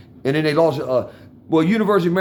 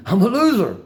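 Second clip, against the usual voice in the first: laughing it out, a bit louder; 4 semitones higher, 3 dB louder than usual. Real, not acted. Telling his viewers again he's a loser, laughing. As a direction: laugh at yourself as you repeat it.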